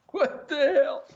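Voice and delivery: high, slow laughing exclamation; laughing disbelief. Real, not acted. Host finds a hole in the flag, laughing. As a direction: laugh through the surprise.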